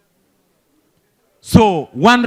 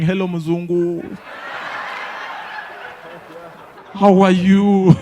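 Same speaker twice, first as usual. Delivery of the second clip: street greeting yell. Retold or imitated. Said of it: "the whole street screaming".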